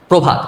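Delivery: প্রভাত said as probhat, o after pr, no final vowel; standard pronunciation. Shown as a demonstration. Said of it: "প্রমিত উচ্চারণ হচ্ছে". (প্রভাত প্রমিত উচ্চারণে)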